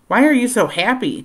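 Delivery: high, whiny complaint; complaining. A narrator's reading. Dan grumbling at Amy's smile, high and whiny. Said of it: "Dan complained".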